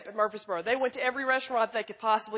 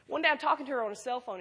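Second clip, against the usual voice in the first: ordinary talk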